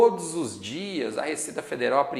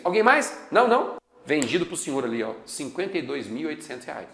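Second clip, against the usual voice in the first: auctioneer. Pretend. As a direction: sell it off like an auctioneer. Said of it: "auction scene, calls sale".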